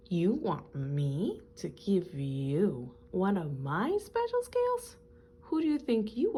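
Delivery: mild mock indignation, rising sharply; indignant proud fish. Rainbow Fish haughtily refuses the little fish, mildly indignant. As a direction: scoff at the little fish's cheek. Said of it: "cried the rainbow fish".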